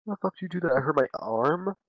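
high, loud indignant shouting at mom; hammed-up angry protest to his mom; mock outraged yell. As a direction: whine it up high and loud like a wronged kid. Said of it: "And I was like".

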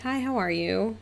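sweet, sociable hi; friendly greeting. Retold or imitated. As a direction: greet politely with pitch lifted. Greeting the cold client.

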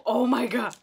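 loud high yelp of panic; startled shout. Real, not acted. Vlogger yelping as the wax strip goes on. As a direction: blurt it out, suddenly panicked. Strip touches her leg.

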